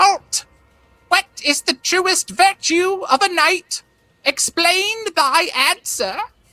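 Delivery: small, little voice. Voicing a small voice from inside a suit of full plate mail: squeaky tiny voice. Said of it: "a squeaking little tiny voice that issues from within this like full plate mail".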